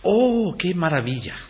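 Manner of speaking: high, overdone gasp of wonder; mock amazement. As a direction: ham up a shallow oh how wonderful. Mocking the crowd's shallow amazement.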